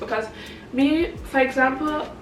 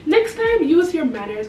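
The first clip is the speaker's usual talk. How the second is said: put-on admonishing little girl; 3 semitones higher than usual. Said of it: "and she was like".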